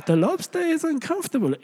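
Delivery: high-pitched, hammed-up Jewish rabbi impression; Jewish rabbi accent. Preacher gives in and mimics the rabbi, hammed-up Jewish accent. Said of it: "I'm not gonna do a Jewish accent".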